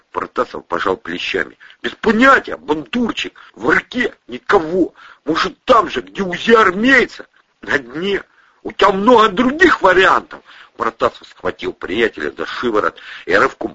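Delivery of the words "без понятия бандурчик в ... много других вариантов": high, loud rough answer; tough guy voice. Acted. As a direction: shrug it off gruffly. Protasov's voice.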